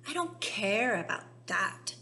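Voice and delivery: loud bratty retort; mock shout. Veruca defying her mother, shouting. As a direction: stamp your foot. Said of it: "shouted Veruca".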